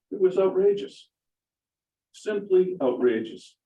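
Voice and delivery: indignant, pitched well up; real outrage. Real, not acted. Dog owner testifying about the attack on his dog, outraged. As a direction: protest it emphatically, high-pitched.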